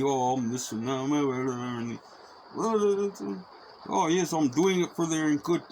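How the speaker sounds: mocking a self-righteous churchgoer; mock pious. Mocking the churchgoing child-spanker.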